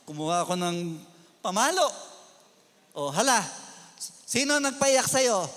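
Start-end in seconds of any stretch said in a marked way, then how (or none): 2.9-5.5 irritated demand. Retold or imitated. Pastor furiously asking the girl again who made her cry. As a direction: press her to name them. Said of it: "Nanggigigil ako".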